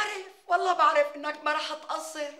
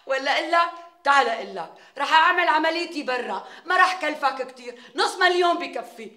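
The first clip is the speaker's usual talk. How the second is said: pushy demand; 7 dB louder than usual. Real, not acted.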